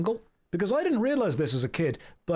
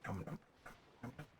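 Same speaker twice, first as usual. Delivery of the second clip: playful nom nom; 5 semitones lower, 22 dB quieter, faster than usual. Pretend. Pretend eating the dog.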